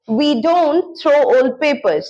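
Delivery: each word drawn out slowly for learners; slow model sentence. Shown as a demonstration. Teacher to students, slow clear model sentence. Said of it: "हम पुराने papers नहीं फेंकते".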